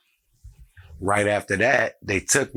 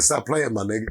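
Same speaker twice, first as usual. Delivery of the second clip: disbelieving brush-off; 3 semitones higher than usual. Retold or imitated. Repeating his reply to the caller, dismissive disbelief. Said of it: "I said it just like that".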